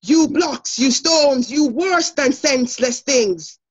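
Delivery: stressed and unstressed beats marked, slow on the last line; teacher reads the example line in da-DUM rhythm; iambic rhythm demo. Shown as a demonstration. Teacher models Shakespeare line in iambic stress. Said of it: "so the example is".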